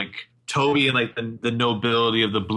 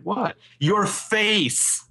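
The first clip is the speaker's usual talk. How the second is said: higher, lightly voiced innocent question; mock confusion; 10 semitones higher, much slower than usual. Arya answering Emily's elbow nudge, lightly mock innocent. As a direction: play dumb, a touch higher. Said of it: "And Arya's like".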